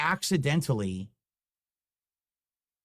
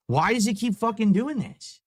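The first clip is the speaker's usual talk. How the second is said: real anger; 6 semitones higher than usual. Real, not acted. Software keeps misbehaving.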